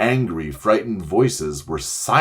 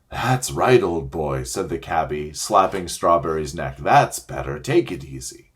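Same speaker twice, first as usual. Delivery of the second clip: soothing cabby; 5 semitones lower than usual. Acted.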